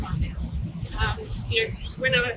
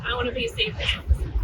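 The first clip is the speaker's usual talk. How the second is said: put-on proud boy; 9 semitones higher, much faster than usual. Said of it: "very proudly".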